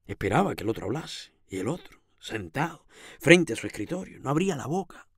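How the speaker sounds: animated storytelling with lingering emphasis; story narration. A narrator's reading. Reading the tale of Camilo before the painting, animated narration. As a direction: tell the story with lively rises and pauses.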